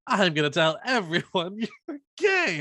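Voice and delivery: mock threatening kid; mock teenage blackmailer. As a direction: retell the threat with hammed-up menace. Mocking retold teenage blackmailer.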